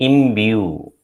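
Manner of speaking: "Imbue" said firmly as im-BYOO; pronunciation model. Shown as a demonstration. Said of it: "that is how it is pronounced".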